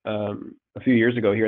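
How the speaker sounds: stuffy nose from a cold; blocked nose. Real, not acted. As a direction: talk through a congested head cold. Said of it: "I'm a little bit congested".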